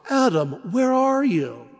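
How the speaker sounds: a father anxiously searching for his son; father seeking lost son. Pretend. God calling Adam like a worried father seeking his son. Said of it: "as he would a lost son".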